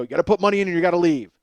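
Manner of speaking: shouted order. Acted. Staff ordering the man out.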